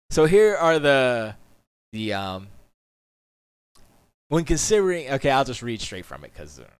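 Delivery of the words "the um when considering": usual speaking voice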